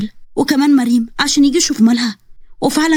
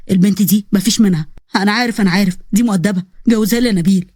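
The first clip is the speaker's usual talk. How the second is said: put-on lower, bantering young men; lightly lowered young men teasing; lower male voices; 4 semitones lower than usual. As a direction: trade jokes between lovestruck friend and Nabil. Two male friends banter.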